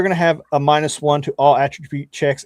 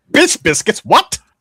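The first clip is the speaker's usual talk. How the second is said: high, loud, zippy, buzzing little sprite voice; 8 semitones higher, 5 dB louder than usual. Voicing a sprite that buzzes up to a player: buzzing sprite voice. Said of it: "He buzzes up to you like".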